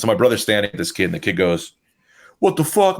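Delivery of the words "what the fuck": high-pitched mock outrage; retold indignant challenge. Kid confronting the brother before a fight, mock indignant. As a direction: throw it out like an incredulous challenger.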